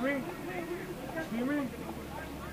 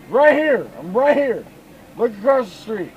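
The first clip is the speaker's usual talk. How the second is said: calling out; 4 dB louder than usual. Real, not acted. Calling out across street.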